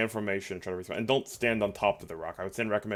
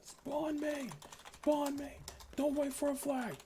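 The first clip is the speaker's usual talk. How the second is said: urgent call; 6 dB quieter, slower than usual. Acted. Calling order after retreat.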